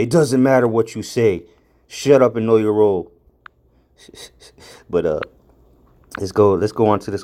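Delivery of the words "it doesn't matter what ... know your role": mock wrestler catchphrase, punched out; quoting The Rock like a heel promo; imitating The Rock. Preacher quoting The Rock's taunt, mildly hammed. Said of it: "like The Rock used to say".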